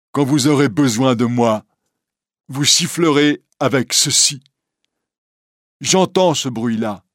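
a lightly voiced Quasimodo reassuring Esmeralda; gentle hunchback. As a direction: soothe her like a shy giant. Quasimodo offers the whistle.

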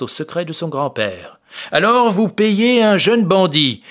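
a hint of a smug police chief; lightly voiced proud inspector. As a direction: sum up the case with pride. Marescal lays out the case.

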